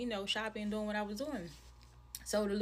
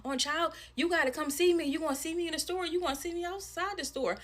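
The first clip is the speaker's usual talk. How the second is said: imitated threatening mother; 6 semitones higher than usual.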